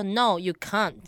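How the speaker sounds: "can't" with an open Australian ah; Australian accent. Retold or imitated. Retelling a friend's English answer, imitated Australian accent. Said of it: "就澳洲腔".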